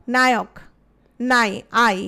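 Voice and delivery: নায়ক split into নাই, আই, loud and clear; stress on আই. Shown as a demonstration. Teacher splitting the word for students, loudly. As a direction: break নায়ক apart and punch আই. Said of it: "অয় আসে না আয় আসে?".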